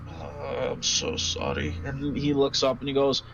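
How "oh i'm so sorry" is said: put-on Gnomish accent. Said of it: "I suck at Gnomish accents".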